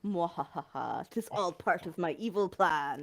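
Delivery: slow, gloating mock villain laugh; sneering panto villain. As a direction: cackle then gloat like a panto baddie. Chose the worst flavour, gloats.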